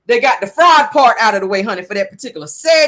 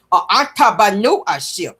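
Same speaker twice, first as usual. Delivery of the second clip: slow, syllable-by-syllable mimicry; mock a kindergartner sounding out a long word; breaking words down; slower than usual. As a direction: chop the word into laboured syllables. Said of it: "breaking down the words like that".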